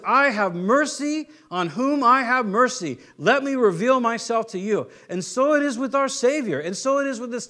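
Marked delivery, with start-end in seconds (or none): 0.1-4.9 gracious invitation. Retold or imitated. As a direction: offer mercy kindly, unhurried. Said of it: "And God says".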